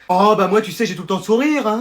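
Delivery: sugary, self-satisfied phone chat; honeyed phone voice. Acted. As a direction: sweet-talk your friend on the phone. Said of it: "t'as une voix toute mielleuse". (voix mielleuse au téléphone)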